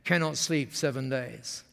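low, slow imitated Japanese-English; Masami's Japanese-accented English. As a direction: lightly voice a Japanese chef's broken English. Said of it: "when they speak like that".

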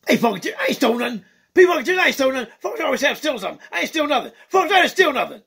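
excitable puppet bird greeting the fans; Skeeter the bird puppet. Acted. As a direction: play a cheeky funk-loving bird puppet.

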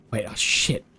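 hushed whisper, caught off guard; real startled whisper; alarmed whisper. Real, not acted. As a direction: whisper it like you might be heard. Sudden danger near the lizard.

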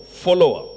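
"follower" said alone for emphasis; emphasized word. Real, not acted. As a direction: stress on "follower", set apart by itself.

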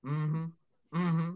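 high, squeaky puppet bragging; proud puppet. Acted. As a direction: crow about the show like a proud puppet. Puppet celebrates its show.

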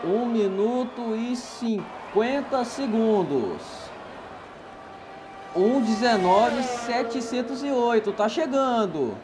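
rising thrill as the driver closes in; excited race commentator. Acted. Calling a flying lap live.

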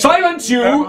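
high, loud booming command; commanding god voice. Acted. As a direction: silence them like an angry deity. God entity voiced in rpg.

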